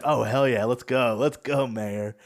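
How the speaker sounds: a touch of loud, eager egging-on; mock excited cheering. Luffy urging the mayor to fight, mock excited.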